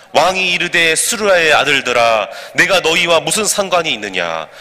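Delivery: slow, measured, evenly paced recitation; congregational scripture reading. Acted. Preacher leading everyone in reading the verses, slow measured recitation. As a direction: read the verses aloud in deliberate phrases.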